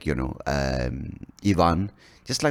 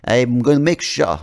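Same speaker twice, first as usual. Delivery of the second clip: slow, loud Australian gone Russian; accent slipping into Russian; 4 semitones higher, 5 dB louder, slower than usual. Acted. Australian leader threatening a player, accent slipping into Russian. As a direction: let the Aussie accent drift toward Russian. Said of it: "I don't know why he suddenly became Russian".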